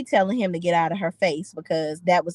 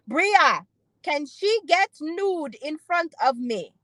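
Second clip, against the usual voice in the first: higher, slower, timid voice asking permission; nervous boyfriend impression; 7 semitones higher, slower than usual. Simon asks Bria if a naked girl is okay, sheepish and slow. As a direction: put on a sheepish guy begging his girlfriend.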